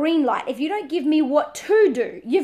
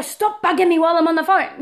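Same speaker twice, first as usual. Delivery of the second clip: irritated parent; 2 semitones higher, 4 dB louder than usual. Shown as a demonstration. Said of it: "Rather than".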